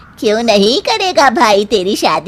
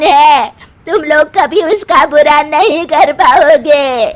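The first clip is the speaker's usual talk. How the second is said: taunting outburst; 3 semitones higher, 3 dB louder than usual. Acted. Mother-in-law accuses and curses.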